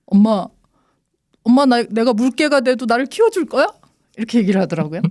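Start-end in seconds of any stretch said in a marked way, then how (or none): 0.1-3.6 put-on high, tearful, crying little child's pleading voice. Retelling how a daughter ran up crying and asked a question: imitating a crying child. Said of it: "막 울면서 뛰어왔어요".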